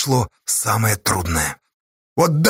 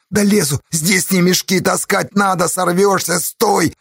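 urgent shouting; 4 semitones higher than usual. Acted. Shouted quarrel on cliff.

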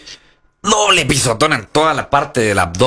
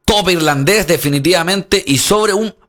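rising excited play-by-play; wrestling commentator; 6 semitones higher than usual. Real, not acted. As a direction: call the big move with fire. Big move call.

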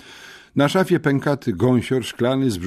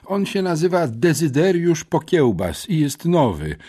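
much higher, hurried schoolgirl; eager girl; 9 semitones higher, 4 dB louder than usual. A narrator's reading. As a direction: rush in with the answer. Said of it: "pośpieszyła z odpowiedzią". (dziewczynka, pośpiesznie i wysoko)

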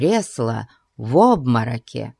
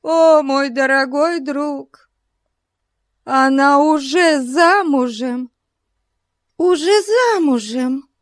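grave gossip; 12 semitones higher than usual. A narrator's reading. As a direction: break the news with weight. Mrs Bute breaking news gravely. (торжественно, с нажимом)

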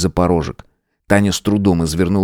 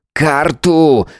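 growled; 8 semitones higher than usual. A narrator's reading. Matvey snaps for the map. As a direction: bark it. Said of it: "прорычал Матвей".

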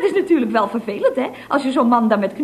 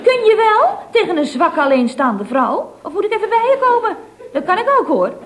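huffy threat; 4 semitones higher, 4 dB louder than usual. Acted. Threatening the officer on phone.

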